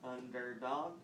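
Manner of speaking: "Underdog" measured out as UN, DER, DOG; counting syllables. Shown as a demonstration. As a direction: give each syllable of "Underdog" its own beat. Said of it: "each time that you say a syllable".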